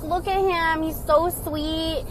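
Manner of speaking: high, slow adoring coo; mock a smitten follower cooing over him; slow, high starstruck cooing; swooning fan. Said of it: "who's like".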